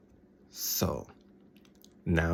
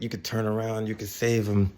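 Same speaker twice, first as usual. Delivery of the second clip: urgent plea; 5 semitones higher than usual. Retold or imitated. Retold Blackthorn urging a rescue.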